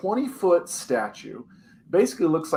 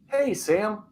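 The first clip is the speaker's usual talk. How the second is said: lightly voiced coaxing dad, pitched up; a higher, friendly call to a kid; friend's dad coaxing; 8 semitones higher than usual. Friend's dad calling the boy to the couch, lightly voiced coaxing.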